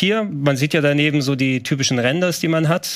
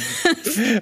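stifled giggles; 9 semitones higher than usual. Real, not acted. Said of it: "Dann darf er aber nicht lachen".

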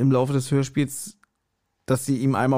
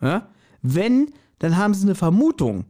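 higher, mock-earnest warning; a hint of a fussy policeman correcting you; cautioning policeman; 6 semitones higher than usual. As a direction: play the officer lecturing gently. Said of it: "Dann hab ich gesagt".

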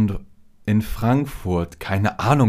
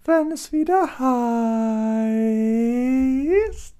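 falsetto; 13 semitones higher, much slower than usual. Acted. Sing-song sign-off catchphrase.

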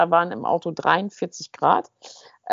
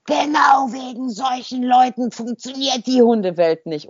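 raised, slow, scolding shout at a stranger; a stranger yelling indignantly at a dog walker; angry yell from behind; 4 semitones higher than usual. Retold or imitated. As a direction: yell it at someone's back, outraged. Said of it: "Und da höre ich von hinten".

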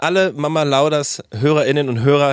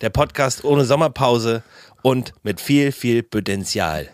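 announcer voice; slower than usual. Acted. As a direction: rise then slow drop. Repeated tagline.

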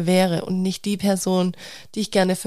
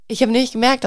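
whispered aside; 4 semitones higher, faster than usual. Real, not acted. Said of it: "aside after laugh".

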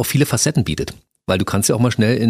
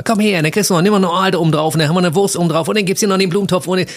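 Hamburg fish market seller; 8 semitones higher, faster than usual. Shown as a demonstration. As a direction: hawk your wares over the crowd. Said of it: "Hamburger Fischmarktverkäufer".

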